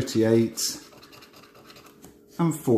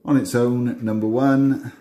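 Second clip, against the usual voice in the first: bingo caller; 3 dB louder than usual. Acted. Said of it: "I start doing my bingo calls".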